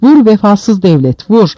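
high, loud defiant cry; defiant shout. A narrator's reading. Beaten man daring the state to hit him, defiant shout. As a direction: hurl it at the state.

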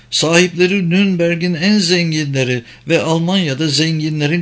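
high-pitched, emphatic woman; high, insistent female character voice; objecting German woman. Acted. German woman objects, explains security.

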